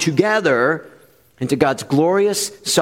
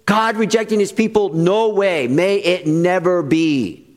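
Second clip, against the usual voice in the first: incredulous listener; 3 semitones higher than usual. Retold or imitated. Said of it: "If you're like".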